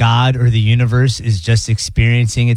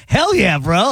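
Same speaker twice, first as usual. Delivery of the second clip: excited; 5 semitones higher, slower than usual. Retold or imitated. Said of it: "you're just like".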